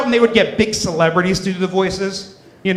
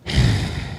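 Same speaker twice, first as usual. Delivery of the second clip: gravel Batman sigh; 4 dB quieter than usual. Pretend. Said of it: "Batman would go first".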